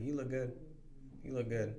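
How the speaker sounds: unimpressed compliment to wife; dismissive compliment. Retold or imitated. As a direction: say it like you're rolling your eyes. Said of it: "roll my eye".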